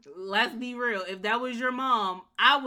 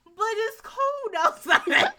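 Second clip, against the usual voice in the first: put-on much higher, slow and pleading like a frail old lady; feeble old mother; 13 semitones higher, 8 dB louder, slower than usual. Jasmine's old mother begging her not to kick her out, in a high feeble voice. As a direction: beg like a helpless old mother. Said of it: "I love that you made it cold".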